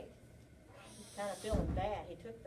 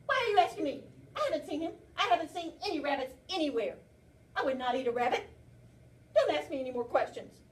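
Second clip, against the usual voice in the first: louder, higher, nervous denial; a guilty bear brushing off questions too fast; defensive bear; 3 semitones higher, 6 dB louder than usual. Acted. Teacher reading to class, the bear lies to the squirrel: loud defensive. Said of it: "And the bear says".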